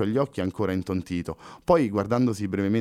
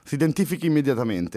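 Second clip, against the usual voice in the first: firm officer, higher and demanding; asserting policeman; 4 semitones higher than usual. Acted. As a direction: insist on an ID like a wary cop. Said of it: "asserì il poliziotto".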